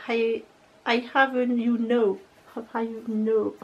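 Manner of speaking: English read haltingly in a French accent. Real, not acted. Vlogger reading out palette lettering, French-accented English. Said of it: "Avec mon très bel accent anglais".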